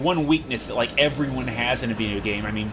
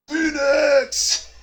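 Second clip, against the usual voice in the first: high excited shout; 6 dB louder than usual. Real, not acted. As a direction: call it out with a big yell. Calling out in game.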